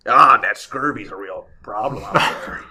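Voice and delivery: slow Scottish pirate lilt; old salt in a Scottish brogue; Scottish pirate accent. Pretend. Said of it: "I guess I'm not going pirate anymore".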